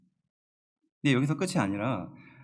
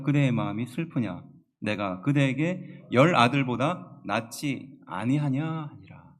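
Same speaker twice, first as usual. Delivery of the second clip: measured, louder scripture read; 3 dB louder, slower than usual. Acted. Congregation reading the Bible verse, solemn read. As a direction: read the verse aloud with weight.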